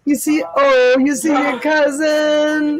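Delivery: high, sing-song cooing to a puppy. Real, not acted. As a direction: coo at the dog with delight. Talking to the puppy.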